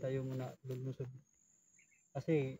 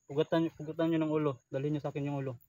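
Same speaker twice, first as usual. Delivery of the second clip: lightly voiced commander, louder; commander giving orders; 6 dB louder than usual. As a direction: pass on a commander's threat with some force. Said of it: "sinabihan niya".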